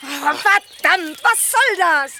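high, slow, exasperated cry; startled annoyance. Real, not acted. Surprised by Laura's call, annoyed high cry. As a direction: throw it out in shock.

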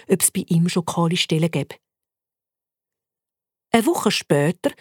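usual speaking voice

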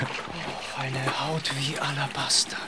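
breathless admiring whisper. Acted. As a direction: whisper it, lost in desire. Admiring the woman's bare legs. (flüsternd)

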